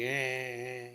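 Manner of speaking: drawn-out mock wail, low and soft; imitated child's crying. Child waking up crying in the morning, mock wail. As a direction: fake a child's whining cry. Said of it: "started crying".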